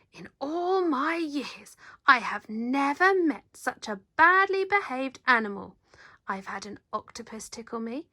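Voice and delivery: a hint of a fuming TV man scolding; furious man. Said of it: "The man was furious".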